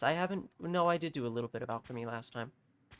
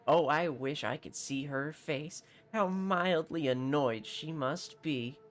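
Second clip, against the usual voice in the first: a lightly voiced haughty captain; hint of a pompous nobleman. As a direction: play a self-important mercenary captain, lightly. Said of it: "what he sounds like".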